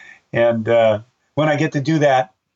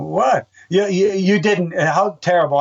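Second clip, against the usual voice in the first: mock shock; 4 semitones higher than usual. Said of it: "And I'm thinking".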